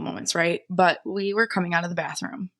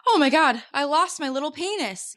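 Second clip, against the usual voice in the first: imitating Jason; 7 semitones higher than usual. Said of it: "He's like".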